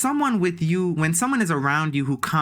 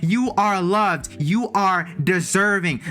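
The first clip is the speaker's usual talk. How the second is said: sincere affirmation; 2 semitones higher than usual. Real, not acted. Reassuring affirmations.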